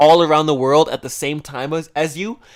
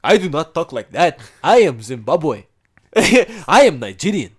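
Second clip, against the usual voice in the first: put-on African accent. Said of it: "they're like".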